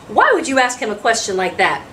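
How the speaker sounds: understated motherly telling-off; mild snapped rebuke. Acted. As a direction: mildly reproach a child for prying. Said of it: "Emma snapped".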